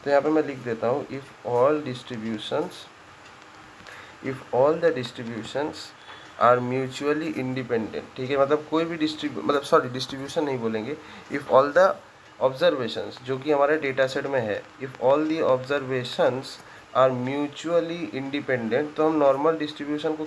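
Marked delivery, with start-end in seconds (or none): 1.1-8.2 slow, spaced-out dictation; dictating. Real, not acted. Teacher writing out a condition for students, dictating slowly. 14.6-19.0 slow, measured dictation; dictating. Real, not acted. Teacher writing the corrected condition for students, dictating slowly.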